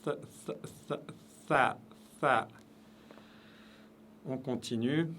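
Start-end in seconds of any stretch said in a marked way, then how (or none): 0.0-2.5 "Tha" breathed out on air; whispered tha. Shown as a demonstration. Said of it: "un S et un T qui se mélangent".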